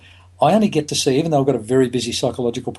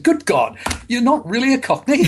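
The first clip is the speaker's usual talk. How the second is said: high, astonished exclamation, as if reeling back; retold astonishment; 12 semitones higher than usual. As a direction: play the stunned theatregoer who just realised. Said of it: "he reared back, he said".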